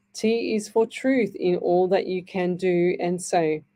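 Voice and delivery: slow, gentle read of a prayer poem. Acted. Radio host reading a listener's prayer to the audience, slow and gentle.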